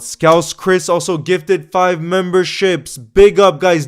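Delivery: loud, high celebratory shout; loud hype. Real, not acted. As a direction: cheer the donor loudly. Celebrating big gift.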